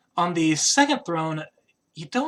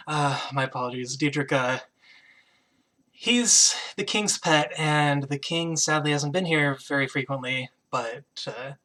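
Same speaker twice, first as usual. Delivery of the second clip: apologetic queen. Acted. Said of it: "she goes".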